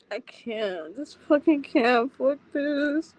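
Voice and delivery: tearful gasp between broken words; crumble, a sob escaping; real breakdown; breaking down. Real, not acted. Breaking down mid story.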